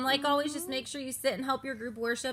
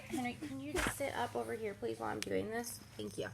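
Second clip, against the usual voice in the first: hushed aside; 11 dB quieter than usual. Real, not acted.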